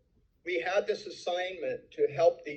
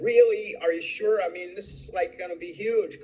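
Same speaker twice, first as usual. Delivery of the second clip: retold disbelief; 4 semitones higher than usual. Jim to his boss who just refused, incredulous. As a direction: ask as if you can't believe the answer.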